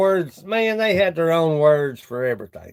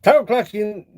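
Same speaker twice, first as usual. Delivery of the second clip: hillbilly; 4 semitones higher than usual. Pretend. Hillbilly teasing continues.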